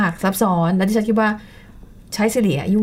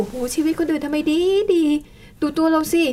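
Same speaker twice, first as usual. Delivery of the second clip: envious whine; 7 semitones higher than usual. Pretend. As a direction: moan enviously at others' lives. Imagined envious Facebook scroller.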